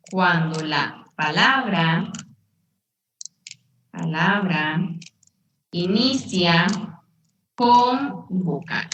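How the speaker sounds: halting, word-by-word dictation with long pauses; drawn-out words, pause after each chunk; slow dictation. Shown as a demonstration. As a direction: dictate it slowly for note-takers, repeating as needed. Teacher dictates rule, then repeats it.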